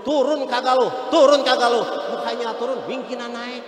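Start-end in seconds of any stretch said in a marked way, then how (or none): 0.0-1.8 furious mother yelling louder; angry shout. Retold or imitated. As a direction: scold hard, louder on the repeat. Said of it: "Emaknya kesel nunjuk-nunjuk". (emak marah berteriak kepada anak di pohon)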